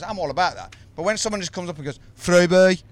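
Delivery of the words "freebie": whiny beggar. Retold or imitated. Imitating freebie beggar.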